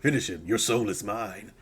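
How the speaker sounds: announcer voice. Retold or imitated. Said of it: "We say all those things".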